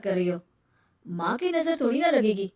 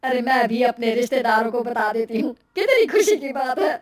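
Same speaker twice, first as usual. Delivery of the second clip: lightly voiced happy relative, louder as joy builds; excited family member; 4 dB louder than usual. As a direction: share good news with open delight.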